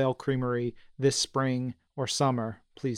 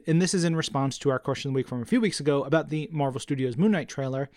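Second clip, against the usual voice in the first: ordinary talk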